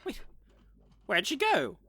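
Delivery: party members shouting as the vampire vanishes; alarmed calls. Acted. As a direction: call out in alarm. Vampire vanishes, they panic.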